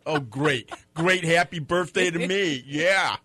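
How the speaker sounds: loudly aggrieved fake cheer; mock sarcasm. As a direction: play up the birthday letdown. Acts out sarcastic birthday disappointment.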